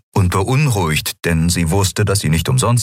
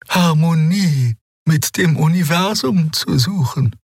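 put-on much higher, slow, awed young voice; young healer Xea; 13 semitones higher, slower than usual. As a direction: speak with reverent wonder, slowly. Xea defends her faith. (hohe, langsame, ehrfürchtige Stimme)

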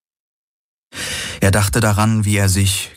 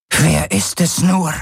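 much higher, slow, agitated question; 11 semitones higher than usual. Acted. Kessli asks who it is, high and agitated. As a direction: worry pushing the pitch up. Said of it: "nicht weniger aufgeregt als er selbst".

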